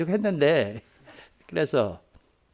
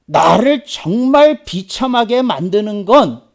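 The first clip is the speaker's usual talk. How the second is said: loud, slow, high-pitched lament; drawn-out, forceful cry of frustration, acted; anguished confession retold; 7 semitones higher, 7 dB louder, slower than usual. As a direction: imitate a distressed pastor pouring it out. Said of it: "그러면서 막 울더라고요".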